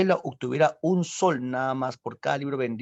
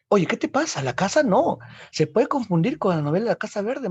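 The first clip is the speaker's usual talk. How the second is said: louder, higher, protesting; loud objection; 7 semitones higher, 4 dB louder than usual. Acted. Vargas Llosa to García Márquez, loud objection. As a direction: raise your voice and object.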